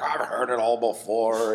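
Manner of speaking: slow, weary been-there-done-that voice; jaded old guy. Retold or imitated. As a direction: drag it out like a bored old-timer. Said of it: "I hate being the old guy".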